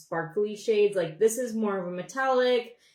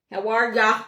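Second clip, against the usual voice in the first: louder playful Minnesota accent greeting; 6 dB louder than usual. Shown as a demonstration. Greeting viewer Jackie on the stream, playful Minnesota accent. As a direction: stretch it out like a Minnesotan. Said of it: "I sound like I'm from Minnesota".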